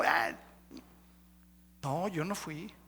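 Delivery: mock denial. Discusión actuada entre mentiroso y acusador.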